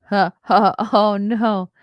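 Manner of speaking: laughing through the words; giggly mock dismay. Real, not acted. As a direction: chuckle out a mock oh no. Laughs at Henyard's tiny vote count.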